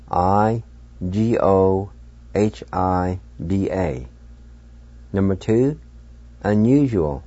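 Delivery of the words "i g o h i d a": spelled out. Shown as a demonstration. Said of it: "and it's spelled".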